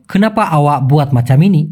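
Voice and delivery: very slow, each word separate; Malay sentence said very slowly; slow Malay demo. Shown as a demonstration. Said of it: "Malaysian ফরম্যাটে হয়".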